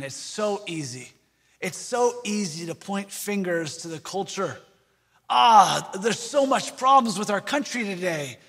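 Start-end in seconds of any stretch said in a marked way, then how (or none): 5.3-8.4 mock grumble. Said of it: "I hear that said all the time".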